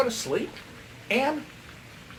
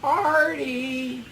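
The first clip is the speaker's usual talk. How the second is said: high, drawn-out seductive call; hammed-up come-hither call; mock sexy voice; 6 semitones higher than usual. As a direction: imitate a sultry woman calling her lover. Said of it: "It was a really sexy voice".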